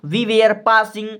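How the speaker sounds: we were passing drawn out slowly; slow dictation. Shown as a demonstration. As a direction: dictate each word slowly. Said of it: "तो पासिंग लिखोगे". (धीरे-धीरे लिखवाते हुए)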